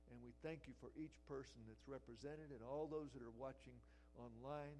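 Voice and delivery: steady, earnest prayer voice; closing prayer. Acted. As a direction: lead the congregation in prayer.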